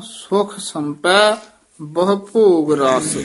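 ਸੁਖ said lightly, not pressed hard, slowly; soft ਸੁਖ. Shown as a demonstration. Teacher shows how to say ਸੁਖ. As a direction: let ਸੁਖ come out loose and easy. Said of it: "ਸੁਖ ਨਹੀਂ ਕਸ ਕੇ ਬੋਲਣਾ".

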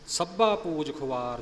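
ਸੱਭਾ said sabb-haa at the head of the line; weight the doubled middle of ਸੱਭਾ; doubled reading. Shown as a demonstration. Teacher citing an earlier verse, ਸੱਭਾ with doubling. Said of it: "ਅਦਕ ਲਾ ਕੇ ਪਾਠ".

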